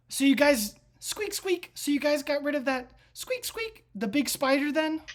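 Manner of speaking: high, squeaky rat character; rat guy. Acted. Rat guy asking about the big spider, high squeaky voice. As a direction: pitch it way up like a little rat. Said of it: "And he goes".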